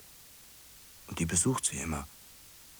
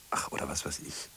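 whisper; 5 semitones lower, 7 dB quieter than usual. Acted. Dismissive whispered aside.

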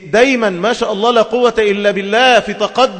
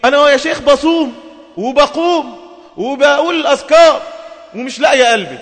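imitating proud questioner; 5 semitones higher than usual. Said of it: "تقول لك إيه".

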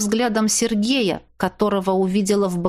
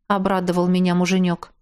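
ordinary delivery

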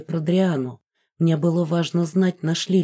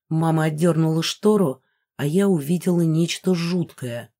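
ordinary delivery

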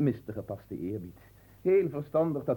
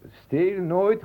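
stern command; 8 semitones higher, 7 dB louder than usual. Acted. Marquis lecturing new servant.

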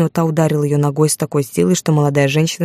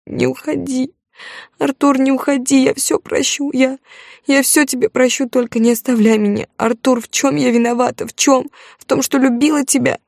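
much higher, desperate wailing; wailing plea; 8 semitones higher than usual. A narrator's reading. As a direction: beg him not to leave, voice climbing. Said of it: "Вдруг Алёна взвыла".

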